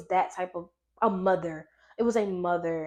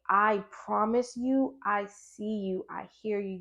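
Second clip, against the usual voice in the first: tender reassurance; slower than usual. Retold or imitated. God's voice comforting her.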